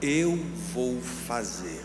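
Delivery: low, soft and very slow; unhurried, soft voice of quiet reassurance; gentle voice. Retold or imitated. Jesus answering the preacher's plea for help, gentle. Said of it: "eu ouvi uma voz suave".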